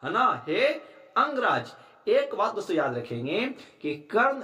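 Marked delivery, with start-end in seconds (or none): 0.5-1.7 raised call. Shown as a demonstration. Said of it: "वो कह रहे हैं".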